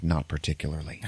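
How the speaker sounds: low, soft, unimpressed imitation; stoic deadpan. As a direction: play it lightly stoic and serious. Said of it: "he's very serious ... very stoic".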